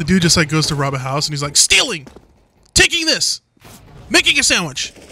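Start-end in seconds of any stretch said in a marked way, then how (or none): 1.6-4.9 put-on shouting, yelled delivery. Imitating a player who yells out every action he does: imitating someone yelling actions. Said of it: "some dude that yelled out every, every action".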